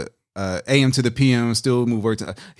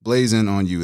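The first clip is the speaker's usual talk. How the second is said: slow breakdown; 3 semitones lower, slower than usual. Shown as a demonstration. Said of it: "That's a four-syllable swing".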